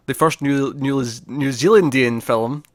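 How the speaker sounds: Zealandian said slowly and carefully; swapped word mid-sentence. Shown as a demonstration. Correcting himself for co-host, slow careful word. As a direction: stretch out New Zealandian deliberately. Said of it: "I had to swap how I said that".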